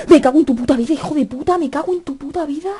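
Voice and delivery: real fright, yelling curses at the game; jump-scare cursing. Real, not acted. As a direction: curse right after jumping out of the chair. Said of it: "he saltado de la puta silla".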